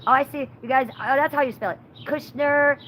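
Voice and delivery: mock her squeaky voice-changer whine; little girl voice. Mocking a streamer's little-girl voice as she fumbles a name. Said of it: "So I'll say".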